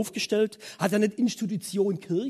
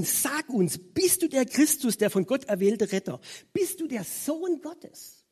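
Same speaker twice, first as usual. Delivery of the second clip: higher, slow probing question; high priest questioning; 5 semitones higher, slower than usual. Retold or imitated. High priest interrogating Jesus, higher and slow. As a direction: press him slowly from above. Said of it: "Der Hohenpriester fragt ihn".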